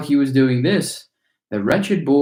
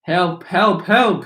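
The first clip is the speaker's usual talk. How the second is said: high, rising cries for help; frantic yell for help; 6 semitones higher, slower than usual. A narrator's reading. Boy drowning in chocolate crying out for help, high and frantic. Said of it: "he yelled".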